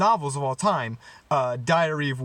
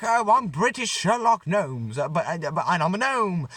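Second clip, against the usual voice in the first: badly faked British accent; Johnny Depp. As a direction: attempt a quirky British gnome, badly. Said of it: "I can't do a British Johnny Depp accent".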